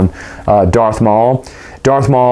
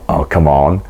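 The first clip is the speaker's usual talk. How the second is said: exasperated groan; 7 semitones lower than usual. Retold or imitated.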